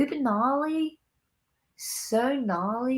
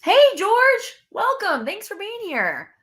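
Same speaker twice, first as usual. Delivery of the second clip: much higher, bright welcome; excited greeting; 9 semitones higher, 5 dB louder than usual. Real, not acted. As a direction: call out hello to a new viewer. Greeting viewer warmly.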